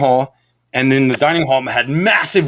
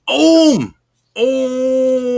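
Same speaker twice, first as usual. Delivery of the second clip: shouted greeting; 10 semitones higher, 4 dB louder than usual. Real, not acted. Greeting a chat user.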